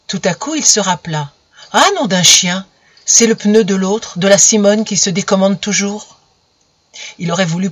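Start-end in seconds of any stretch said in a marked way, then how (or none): 1.7-6.2 louder, a man caught out swearing under his breath; alarmed exclamation. Acted. Romain dismayed as Camille reads the letter, loud exclamation. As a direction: blurt it in dismay.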